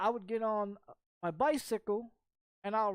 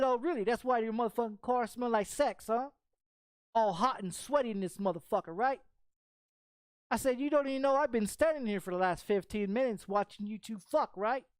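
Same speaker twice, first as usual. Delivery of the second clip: retold angry taunting; 3 semitones higher than usual. Retold confrontation of the man.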